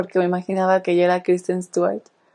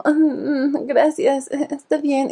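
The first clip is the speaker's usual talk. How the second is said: sulky thanks; 4 semitones higher, 5 dB quieter, slower than usual. Retold or imitated. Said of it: "Así se queda como".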